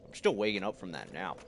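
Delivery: drowsy, just woke up; sleepy voice after a nap; groggy from nap. Real, not acted. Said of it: "if I sound groggy".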